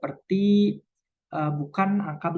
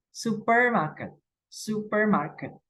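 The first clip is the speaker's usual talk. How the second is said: supermarket pitched high, slow, stressed on su; 5 semitones higher than usual. Shown as a demonstration. Teacher demonstrates first-syllable stress, slow and high. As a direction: slowly lean on su in supermarket. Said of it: "yang diberi tekanan adalah kata subnya".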